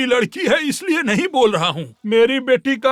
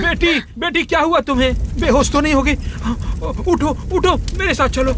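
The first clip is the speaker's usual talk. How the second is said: 1 alarmed father; 4 semitones higher than usual. Acted. Father alarmed, daughter faints.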